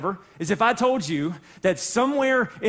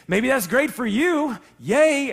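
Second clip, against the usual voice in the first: slow, dry mock congratulation, a louder higher "Yay" at the end; sarcastic; 5 semitones higher, 4 dB louder, slower than usual. Pastor mocking his own envy of others, sarcastically. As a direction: grudgingly cheer someone else's luck.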